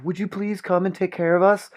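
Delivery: high, pleading mock plea; lightly hammed-up desperate request; mock pleading women. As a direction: beg him sweetly in a put-on high voice. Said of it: "an old man are like".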